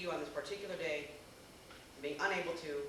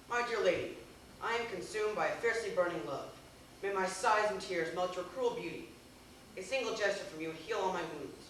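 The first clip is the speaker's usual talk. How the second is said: declaiming love letter. Shown as a demonstration. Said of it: "Here we are then".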